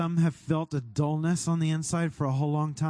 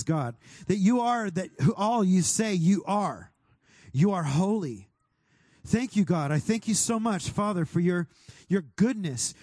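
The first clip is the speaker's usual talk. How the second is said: fervent prayer, declaring and thanking; 3 semitones higher than usual. Acted. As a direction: lift it up like a worship leader praying. Prays aloud over the room.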